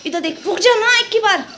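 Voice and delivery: high coaxing plea to Oreo for a photo; pleading with pet. Real, not acted. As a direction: beg the dog to hold still for a photo. Begging the dog to look.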